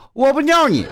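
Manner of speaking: defiant. Real, not acted. Defiant joke at wife.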